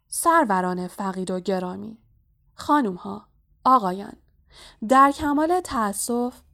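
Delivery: ceremonious address with separated phrases; formal speech. A narrator's reading. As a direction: open a solemn speech to the assembly. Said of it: "دیگه وقت سخنرانی منه". (سخنرانی رسمی)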